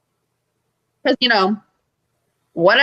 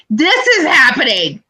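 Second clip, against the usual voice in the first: mildly raised, emphatic exclamation; retold excitement; 3 semitones higher than usual. Fan retelling answer to confused crowd, emphatic excitement. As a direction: declare it with a touch of awe.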